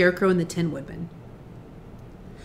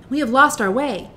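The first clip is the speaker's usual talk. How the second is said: put-on girl voice, high and louder; 5 semitones higher, 4 dB louder than usual. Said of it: "said the child".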